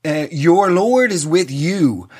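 slow, intoned prayer line; drawn-out mock-solemn recitation; mock priest. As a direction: lightly imitate a pompous priest praying. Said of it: "like he's trying to modernize it".

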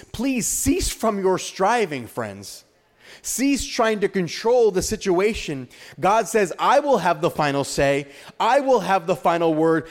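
emphatic, declarative preaching; impassioned preaching. Real, not acted. Preacher gives the church God's promise of the final say, emphatic preaching. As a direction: drive each promise home, slowing on the key lines.

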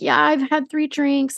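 high, slow mock apology; hammed-up girly whimper; mock whiny girl. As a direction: mimic a simpering drunk girl. Mimicking drunk girl.

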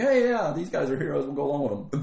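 naive cheerful. Retold or imitated. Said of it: "we're just gonna go".

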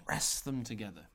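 hushed mock instruction; whispered.

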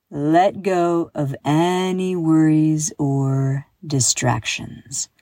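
slow, measured relaxation guide; guided breathing. Acted. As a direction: draw out the words as you lead a breath. Leads a breathing exercise.

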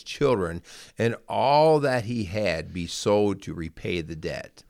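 measured, careful Bible reading aloud; scripture reading. Acted. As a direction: read the parable to listeners at an even pace. Reads Bible parable aloud.

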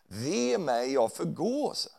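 understated prophetic outcry; mild dramatic cry. Acted. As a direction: call out the prophet's woe with some force. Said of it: "så ropade han".

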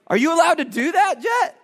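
stern dad. Retold or imitated. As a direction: call the boy out sharply.

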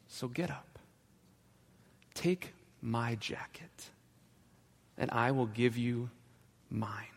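hushed, half-whispered command; quiet authority. Acted. Ragman to one-armed man, hushed but firm. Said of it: "he spoke with such authority".

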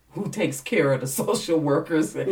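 laughing through the question; amused, laugh breaking in. Real, not acted. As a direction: ask it through a real laugh. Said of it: "I'm laughing".

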